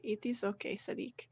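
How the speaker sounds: gentle, hushed comfort; soft reassurance. Acted. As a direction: quietly reassure him. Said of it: "And she'll just say".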